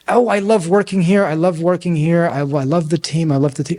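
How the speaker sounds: acted-out eager insistence, tumbling repeats; pleading enthusiasm. Employee told to close notes protests to boss, pleading enthusiasm.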